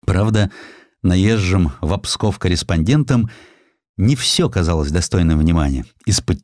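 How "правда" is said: ordinary delivery, nothing marked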